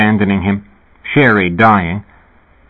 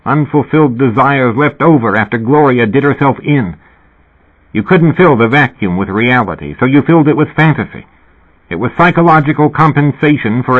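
higher, forceful scolding; exasperated rant; 3 semitones higher than usual. Acted. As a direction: berate him, fed up. Heated lecture at Fat.

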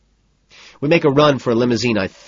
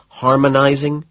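high, loud horrified question; gulping dread; 7 semitones higher, 6 dB louder, slower than usual. A narrator's reading. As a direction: ask it aghast, voice raised. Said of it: "I gulp".

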